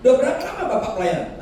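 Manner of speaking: high, very fast mock visitor; brash guest quizzing the pastor; visiting officer. Visitor voiced, rapid question.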